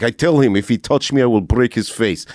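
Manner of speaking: lightly imitated Russian tough guy; Russian accent. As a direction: threaten with a mild Russian accent. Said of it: "he's like".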